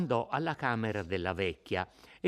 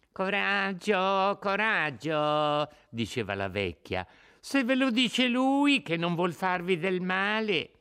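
put-on coaxing old woman; 8 semitones higher, 5 dB louder than usual. La vecchia incoraggia Lucia.

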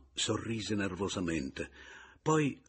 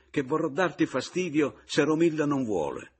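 mocking; 9 semitones higher, 8 dB louder than usual. Mocking rival in quarrel.

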